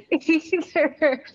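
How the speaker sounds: real laughter breaking up the word; laughing. Real, not acted. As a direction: crack up while trying to speak. Laughing at own Brooklyn slip.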